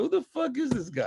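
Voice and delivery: mock surprise. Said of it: "you go".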